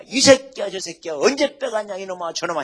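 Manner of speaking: a hammed-up angry yell at another pastor; mock cursing. Pastor mock-yelling insults back at a rival pastor. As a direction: spit out the insults, half joking.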